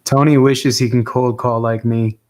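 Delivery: slow, loud playful boast; ribbing a teammate, loud and slow; loud teasing brag. Real, not acted.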